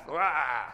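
loud open-throated "wah" outburst; mock roar of wrath. Preacher imitating wrathful teachers or parents, mock roar. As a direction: imitate an angry grown-up's wordless yell.

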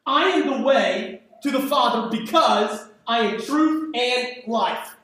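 "I am" pushed up front, a slight rise on "I"; stress on the first words. Shown as a demonstration. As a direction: lean on "I" at the start of each phrase. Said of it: "emphasis on the first words in the sentence".

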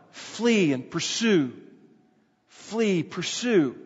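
"flee" and "pursue" drawn out, each falling; emphasis on both verbs. Shown as a demonstration. Preacher showing two verbs side by side, both emphasized. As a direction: set "flee" and "pursue" apart as two commands. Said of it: "The emphasis there".

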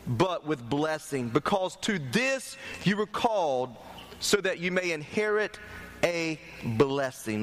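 slow, weighty preacher reading; deliberate, emphatic Bible reading; scripture reading. Acted. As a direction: read the verse out phrase by phrase. Reads scripture aloud to congregation.

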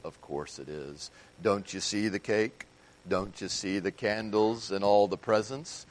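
low, mopey donkey voice; sulky and droopy, a sad donkey; gloomy Eeyore. Retold or imitated. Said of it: "And he says".

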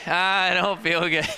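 fake sick kid. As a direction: whine that you feel sick to get a toy too. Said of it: "And he goes".

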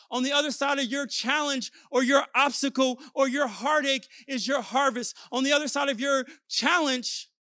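insistent sermon cadence; preaching. Real, not acted. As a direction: drive each parallel phrase home to the congregation. Preacher exhorting the congregation.

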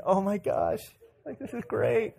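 giddy, airy excitement; mock hyperventilating. Girl reacting to his friend request, mock hyperventilating. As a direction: gush breathlessly, light on volume. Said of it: "she's, like, hyperventilating".

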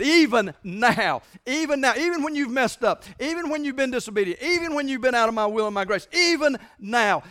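rising passionate appeal; impassioned voice of God. Acted. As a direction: lift it up as God calling back. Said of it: "Because he said".

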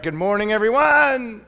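calling out loud and high; big booming hello to the congregation; loud greeting. Shown as a demonstration. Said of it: "can you guys do that with me".

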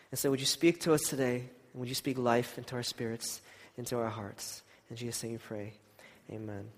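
soft, reverent prayer. Acted. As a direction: pray quietly and earnestly. Leads a prayer.

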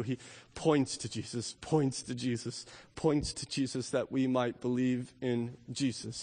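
hushed, sincere pulpit voice; quiet earnest preaching. Acted. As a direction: let each "only he can" sink in gently.

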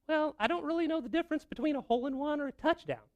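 high put-on falsetto with an affected accent; hammed-up lady character; little lady voice. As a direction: play the sweet, clueless lady up high. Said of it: "I'm losing my accent here".

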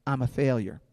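low, soft self-doubt; inner voice. Acted. Fear speaking inside your mind, quiet inner voice. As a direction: confess it quietly to yourself. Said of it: "Fear speaks in your voice, in your mind".

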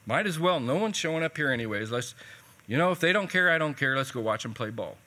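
mildly exasperated, pushed then dropping off; frustrated resignation. Retold or imitated. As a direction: imitate a fed-up pastor giving in. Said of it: "poor Steve was frustrated".

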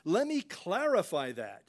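anxious to explain himself, eager to be understood; a hammed-up, pleading "let me clarify"; pleading backpedal. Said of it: "Jesus didn't say".

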